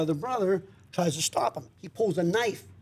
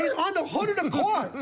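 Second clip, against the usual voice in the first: higher, emphatic confirmation; excited; 8 semitones higher than usual. Real, not acted. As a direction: nearly shout it.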